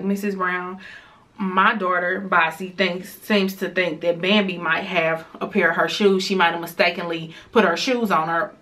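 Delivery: mildly tactful mom impression; sugarcoating. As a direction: gently imitate a mother smoothing things over. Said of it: "don't be trying to sugarcoat it".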